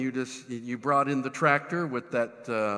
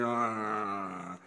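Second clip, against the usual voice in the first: long, low, soft groan; mock weary groan; 6 semitones lower, 7 dB quieter than usual. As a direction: groan as if worn out by shoveling. Acts out exhausted self in silo.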